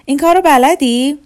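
put-on hoarse, high and loud child. A narrator's reading. Girl standing on her head asks Maryam, hoarse high strained voice.

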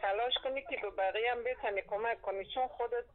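caller heard through phone line; over a landline phone. Real, not acted. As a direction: narrow telephone sound.

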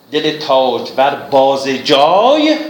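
دل تاجور بازِ جای with kasre on باز, bāze, slowly; reading with kasre. Shown as a demonstration. (بازِ جای با کسره)

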